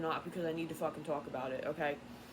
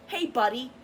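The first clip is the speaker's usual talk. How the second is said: fake-friendly "Hey, buddy", higher on "Hey"; mock friendly greeting; 4 semitones higher, 6 dB louder than usual. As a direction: sneer a sweet fake hello. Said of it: "act like they're all".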